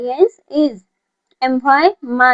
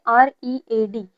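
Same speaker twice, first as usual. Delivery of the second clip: slow spelling; much slower than usual. Shown as a demonstration. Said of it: "आर से क्या बनेगा?".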